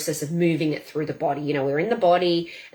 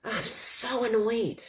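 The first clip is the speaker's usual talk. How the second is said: slow, exasperated grumble; annoyed; 3 semitones higher, 4 dB quieter, slower than usual. Shown as a demonstration. Coach venting during a tapping demo, annoyed. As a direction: draw out the "so" in mild exasperation. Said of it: "I feel furious".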